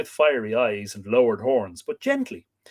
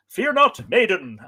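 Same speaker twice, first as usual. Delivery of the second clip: "Fear not" pitched high and louder, meant to soothe; gentle god; 9 semitones higher, 7 dB louder than usual. Acted. Bull god calming Europa, lightly voiced. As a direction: soothe the frightened girl as a god. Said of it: "the bull now spoke in gentle accents".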